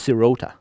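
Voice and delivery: sirota stressed in the middle, si-RO-ta; English-style "sirota", middle syllable stressed; second-syllable stress. Shown as a demonstration. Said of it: "stressing the second syllable".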